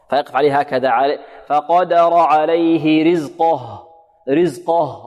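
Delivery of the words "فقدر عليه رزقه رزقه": slow recitation, the final ه of رزقه thickened like the qaf; رزقه with a dark, heavy ending on the ه; wrongly heavy ha. Shown as a demonstration. Teacher warning students about a mistake, thickened-ha demo. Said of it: "يحذر الطالب أن يفخم الهاء".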